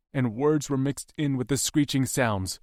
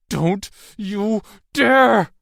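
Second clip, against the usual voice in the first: slow, much higher, louder command; fierce defiant shout; 10 semitones higher, 10 dB louder, much slower than usual. Acted. Maisie defying the knife-wielding captor, fierce shout. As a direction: dare them to try.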